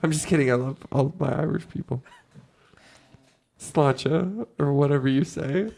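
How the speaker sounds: Clinch. Acted. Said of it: "it's Clinch".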